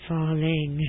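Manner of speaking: Falling said low, pitch dropping; teacher demonstrating falling pitch on Falling; falling intonation. Shown as a demonstration. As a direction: let Falling sink down low. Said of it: "usually end in falling".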